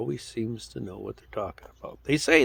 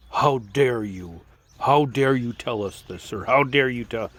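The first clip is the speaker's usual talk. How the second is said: mock judgmental outrage; 3 dB louder than usual. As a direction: mimic the smug indignation of the press. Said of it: "they act like they're all judgmental".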